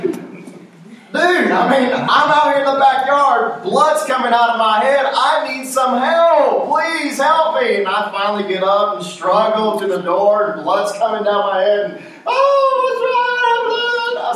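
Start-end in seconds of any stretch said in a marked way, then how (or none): 0.0-7.8 higher-pitched, drawn-out mock distress call; hammed-up injured man begging for help; retold plea for help. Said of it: "and I'm like". 12.3-14.3 very high falsetto squeal of concern; comic falsetto panic on seeing an injury; mock alarm. Retold reaction to bloody head.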